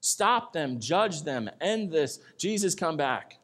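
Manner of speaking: voicing an exasperated believer's prayer, loud and high; impatient complaining prayer. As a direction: plead loudly for God to act now. Voices an impatient prayer to God.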